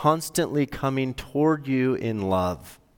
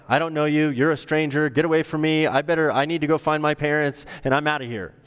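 put-on higher, fast, pushy child refusing help; defiant lost girl; 4 semitones higher, faster than usual. Imagined lost girl pushes the stranger away, higher and hurried. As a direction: shoo the stranger off like a scared kid. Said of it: "She could have run away".

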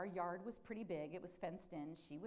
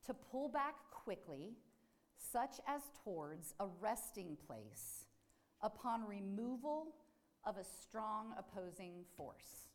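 slow deliberate reading; 3 semitones higher, slower than usual. Shown as a demonstration. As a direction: read the definition slowly, word by word. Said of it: "I'll say that again".

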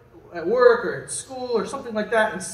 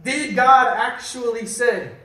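Satan's question; 3 semitones higher, 4 dB louder than usual. Retold or imitated. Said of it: "Satan causes Eve to question".

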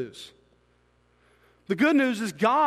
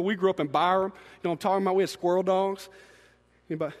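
ordinary delivery

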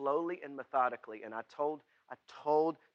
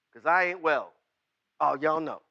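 ordinary talk, nothing marked

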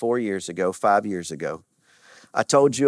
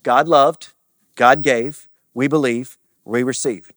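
call and response; 8 dB louder, slower than usual. Shown as a demonstration. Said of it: "you're gonna say it with me".

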